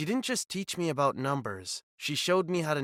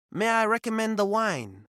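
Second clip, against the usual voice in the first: higher, louder mock French waiter; French accent; 8 semitones higher, 5 dB louder than usual. Fake waiter offering wine in a French accent. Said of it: "putting on my best French accent".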